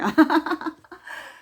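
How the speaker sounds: long, high, loud laugh; real laugh. Real, not acted. Host confessing her incurable habit, loud high laugh.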